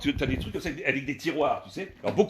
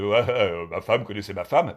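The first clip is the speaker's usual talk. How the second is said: pharmacist; 10 semitones lower than usual. Acted. Pharmacist voiced in story.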